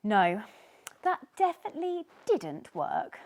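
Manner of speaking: loud, high denial; emphatic no. Acted. Tiny telling Sneezy it failed, loud. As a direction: firmly say it failed.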